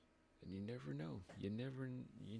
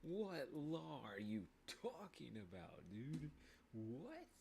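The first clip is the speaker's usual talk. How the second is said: incredulous; 3 semitones higher than usual. Retold or imitated. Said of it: "'cause I'm like".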